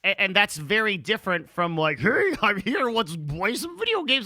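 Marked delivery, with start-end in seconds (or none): 2.0-4.2 higher, put-on streamer greeting; To the Tatman. Guest mimics a typical streamer opening a show, mocking impression. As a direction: do a mock generic Twitch streamer saying hello. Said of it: "It's a perfect To the Tatman impression".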